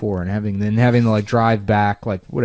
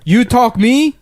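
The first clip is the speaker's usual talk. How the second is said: much higher, louder hammed-up mobster accent; mock Italian-American tough guy; 9 semitones higher, 5 dB louder than usual. Old gun store owner with an Italian accent confronting a customer, hammed-up mobster voice. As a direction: do a movie gangster squaring up. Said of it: "What a great accent".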